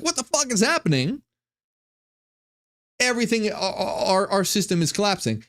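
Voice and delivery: high, rushed mock panic; panicked powers. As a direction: blurt it out like frightened rulers losing control. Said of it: "are being like".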